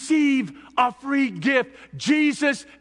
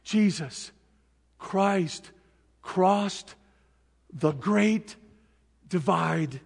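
tender and slow; 3 semitones lower, slower than usual. Acted. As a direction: let each word settle gently. Slow quiet closing.

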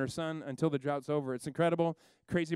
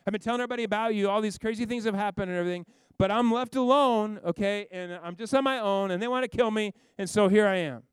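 a higher, louder defensive complaint; exasperated Elijah; 5 semitones higher, 5 dB louder than usual. Retold or imitated. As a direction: plead your case, fed up and alone. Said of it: "And he says it again".

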